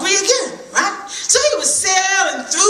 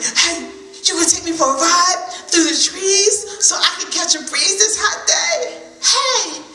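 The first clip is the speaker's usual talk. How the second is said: excited squirrel; 2 semitones higher than usual. Acted. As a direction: jump at the offer.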